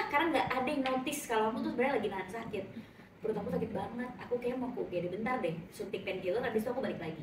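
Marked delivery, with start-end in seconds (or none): 3.2-7.2 quiet plea. Retold or imitated. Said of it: "ngomong pelan-pelan".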